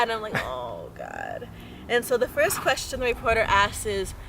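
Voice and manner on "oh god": low, quiet groan of dismay; retold embarrassed despair, pitched way down; mock dread. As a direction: sink into a hushed "here we go". Her dread as dad agrees.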